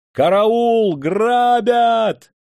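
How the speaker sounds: high, loud terrified yell; screaming for help. A narrator's reading. Officer attacked on a path, screaming for help. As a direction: scream with all your might. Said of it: "И он закричал, что было мочи".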